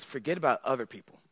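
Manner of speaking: soft first take of "Forget about other people."; soft Jesus. Acted. Jesus voiced speaking to disciples.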